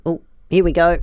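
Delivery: whispered aside; whispering. Real, not acted. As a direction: whisper it under the sound. As the noise plays again.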